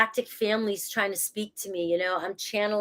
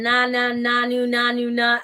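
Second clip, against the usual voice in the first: silly noises; 2 semitones higher, 4 dB louder than usual. Retold or imitated. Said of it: "making all these noises".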